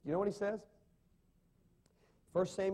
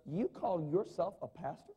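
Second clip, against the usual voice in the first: a put-out churchgoer's indignant outburst, a bit louder; mock outburst; 3 semitones higher, 3 dB louder than usual. Offended churchgoer snapping at the pastor, mock outburst. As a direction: play the offended member storming off. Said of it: "That would probably lead to an outburst of".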